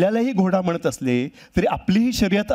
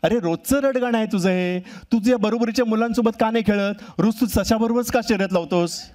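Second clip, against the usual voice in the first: a mother's mock scolding, a little higher; nagging her son about the daily race; scolding tortoise mother; 5 semitones higher than usual. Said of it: "आई ओरडते". (मुलाला रागावणारी आई, थोड्या उंच आवाजात)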